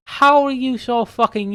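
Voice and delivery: high, slow disbelief; incredulous, high and slow. Pretend. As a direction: marvel slowly at the size. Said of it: "I'm like".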